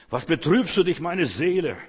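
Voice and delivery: psalmist's lament. Acted. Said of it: "So redet der Psalmist".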